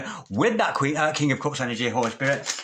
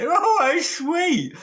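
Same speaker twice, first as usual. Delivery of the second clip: cooing; 14 semitones higher, 3 dB louder, much slower than usual. Acted. Tarot reader cooing at a card.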